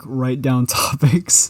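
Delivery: slow, laughing through the words; a laughing retold request; laughing quote. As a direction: chuckle while quoting. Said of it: "I was like".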